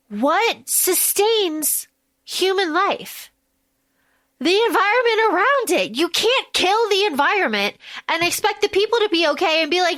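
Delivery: lightly voiced exasperated retort, pitch a bit up; exasperated Tommel. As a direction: scold her plan with mock disbelief. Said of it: "he goes".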